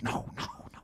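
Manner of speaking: mom refusing. Retold or imitated. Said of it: "I'm just".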